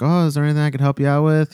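chirpy, eager customer-service greeting; imitating a very nice greeter; super nice. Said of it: "super nice".

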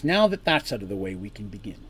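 cold and matter-of-fact; emotionless cool man. Acted. Man opens the talk to the party, cool and emotionless. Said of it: "So again, he says".

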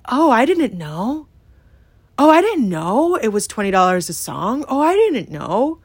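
mock his fake surprise, lightly; mocking his excuse. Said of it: "he had the audacity to say".

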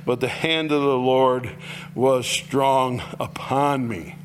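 steady ringing read of the verse; reading scripture to the church. Acted. Reads scripture aloud.

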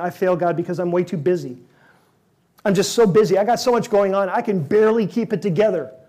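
acting frazzled and harried; mock frantic busyness. Busy listener overwhelmed.

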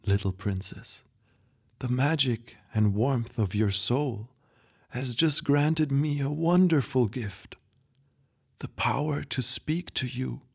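lightly voiced grandpa, softening toward the end; a loving farewell, slowing at the last words; tender old grandpa.

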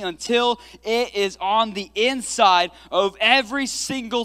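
loud, slow, full-force preaching. Acted.

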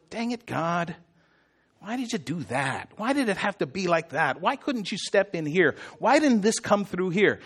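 softly muttered gripe at God; mild complaining. Retold or imitated. People griping to God when something comes their way, mild complaint. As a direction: grumble it under your breath, half-hearted. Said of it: "He complained to God the same way".

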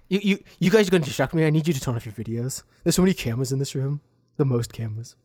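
Trump impression. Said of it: "jaw out".

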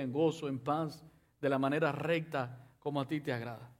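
earnest prayer spoken to God; modeled prayer. Shown as a demonstration. Preacher modeling a prayer for the congregation, earnest and humble. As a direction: pray it humbly, as your own words.

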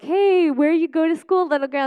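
a hint of a prying stranger; nosy stranger voice. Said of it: "people were like".

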